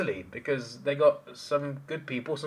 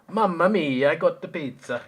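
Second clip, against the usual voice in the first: mock Italian accent, higher and louder; 5 semitones higher, 6 dB louder than usual. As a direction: put on a playful cartoon Italian accent. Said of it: "Imagine David with Italian accent".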